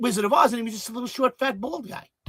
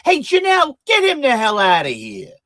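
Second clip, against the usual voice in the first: much higher, loud Brooklyn yell to the assistant; barking order; 5 semitones higher, 8 dB louder than usual. Shown as a demonstration. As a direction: holler for Janelle to throw him out. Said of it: "I can say that too".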